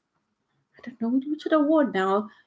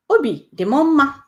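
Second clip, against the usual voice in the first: higher, brighter happy lift; 7 semitones higher, 5 dB louder than usual. Shown as a demonstration. Teacher modelling the happy phrase, higher and louder. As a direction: lift the voice up with joy. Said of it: "I'm happy".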